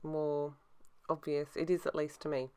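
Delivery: lisping from new braces. Real, not acted. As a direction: sore mouth, slight lisp. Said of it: "if I sound funny today".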